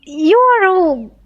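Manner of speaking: loud, fed-up protest; exasperated adventurer. Acted. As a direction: complain like you're being played for a fool. Role-playing Sophia to the beggar.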